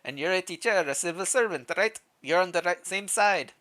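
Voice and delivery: lightly voiced, vaguely Russian villager; a hint of a Russian-ish accent. Villager asking a teacher about sides, light Russian accent. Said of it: "Is that a Russian accent?".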